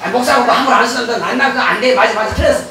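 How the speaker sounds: lightly voiced sneering devil, a touch low; a hint of a gloating devil agreeing; devil's voice. 마귀가 아픈 성도를 비웃으며 부추기는 가벼운 악마 목소리. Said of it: "그러면 마귀가".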